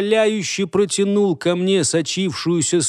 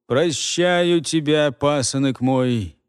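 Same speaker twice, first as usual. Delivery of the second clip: offhand; slower than usual. Acted. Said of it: "небрежно бросил".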